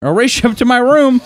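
very high, giddy kid imitation; high-pitched hammed-up race challenge; kid recovering from tears. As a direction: squeal the challenge, mock-childlike. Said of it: "chuckling and, like, like, wiped off his tears".

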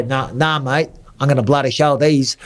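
put-on half-hearted Australian accent; attempted Australian accent. Fighter vowing to fight on, in a badly faked Australian accent. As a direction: have a poor go at sounding Australian. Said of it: "can't do an Australian accent".

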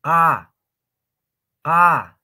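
loud "Ka" made as qa, mouth wide open; plain Quechua Q. Shown as a demonstration. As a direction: open the whole mouth and sound "Ka" far back. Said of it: "Y no cierren". (qa simple, con la boca bien abierta)

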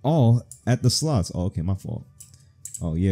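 normal talking voice

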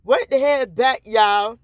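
loud, high hype call; shouted shout-out. Retold or imitated. Sending a shout-out to Lil Duval, loud. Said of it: "tell Lil Duval I said".

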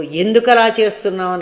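sharp, loud scolding question; harsh scolding. Shown as a demonstration. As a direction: scold them loudly, demanding why. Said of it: "గట్టిగా అరవడం".

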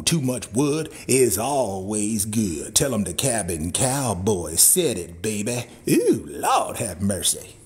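low, slow, drawn-out catchphrase; low slow drawl. Acted. Cowboy preaching his love of wood to viewers, low slow drawl. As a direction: savour every word low.

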